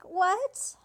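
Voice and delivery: high, loud and slow, building to a cry of the name; hammed-up fan amazement; amazed gushing. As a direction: gush in mock astonishment, peaking on Blood. Elliot reacts amazed, exclamation mark.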